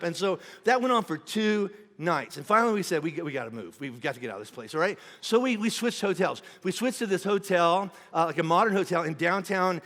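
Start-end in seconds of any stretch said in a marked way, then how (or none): 3.0-4.7 weary. Retold or imitated. Quoting tired couple deciding.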